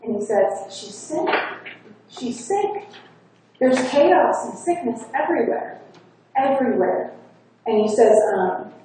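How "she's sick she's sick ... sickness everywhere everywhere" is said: high, rising voice with a mild catch of grief; retold crying. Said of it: "He's crying".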